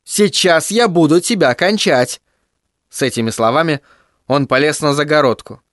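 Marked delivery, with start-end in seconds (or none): 0.0-2.2 мальчишеский голос, сдержанно и медленно; угроза на выдохе; выдохнул. Acted. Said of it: "выдохнул Тедди". (Тедди угрожающе выдыхает)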